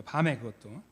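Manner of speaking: normal talking voice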